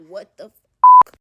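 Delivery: a sudden loud, drawn-out what the fuck; shocked outburst. Retold or imitated. Mother sees pills spill from baby's diaper, loud shocked outburst. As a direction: blurt it out slow and loud in shock. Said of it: "I'm like".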